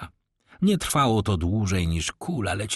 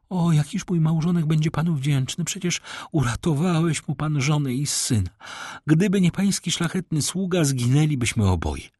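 high, effusive lady's voice; grateful lady; 7 semitones higher than usual. Acted. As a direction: thank him earnestly in a high feminine voice. (wdzięczna dama, wysoko i z przejęciem)

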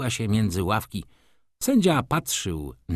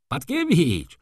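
higher, louder urgent call; a student calling after his friend, louder and higher; 9 semitones higher, 4 dB louder, slower than usual. A narrator's reading. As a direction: shout to a friend to stop. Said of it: "zawołał pan Maleski".

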